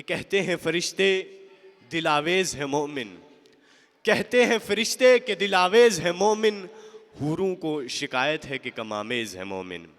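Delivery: declaimed verse, strong opening falling to a settled close; measured Urdu poem recital; poetry recitation. Acted. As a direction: recite the couplet with emphasis.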